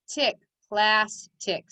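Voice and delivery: slow "tick", then "plastic" split into plas and tic; syllable by syllable. Shown as a demonstration. Teacher decoding for pupils, syllable by syllable. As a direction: say "plastic" as two separate syllables with a gap. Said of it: "Say it fast".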